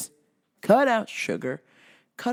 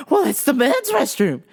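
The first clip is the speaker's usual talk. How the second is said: higher, louder lady voice; mock indignant lady; 4 semitones higher, 5 dB louder than usual. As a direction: insist as a flustered woman. Lady's indignant answer, acted.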